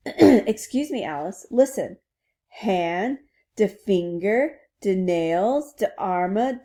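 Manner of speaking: put-on rough French-accented word recital. Princess reciting English words to Alice, French accent. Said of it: "hear this in a French accent".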